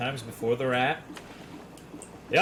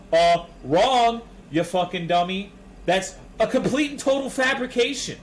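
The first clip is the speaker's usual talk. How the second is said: loud, higher mock debater snapping back; louder, higher mock DSP retort; DSP impression; 6 semitones higher, 4 dB louder than usual. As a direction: shout him down like a smug streamer. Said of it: "I can't do a D S P impersonation".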